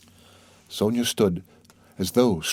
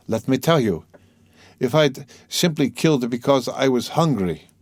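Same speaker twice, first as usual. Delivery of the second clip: "let me tell you" with each word weighted; "because I was hungry" leaned on word by word; stress on every word; 5 semitones higher, 3 dB louder than usual. A narrator's reading. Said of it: "laying stress on every word".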